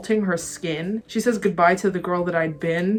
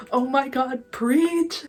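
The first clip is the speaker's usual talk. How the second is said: excited cheer; 6 semitones higher, much slower than usual. Real, not acted. Cheering on singer's line.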